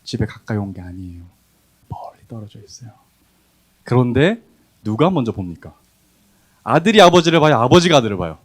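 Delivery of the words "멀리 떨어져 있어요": whispered emphasis. Real, not acted. Pastor whispering to the congregation about the son's distance. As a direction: drop to a whisper on this line.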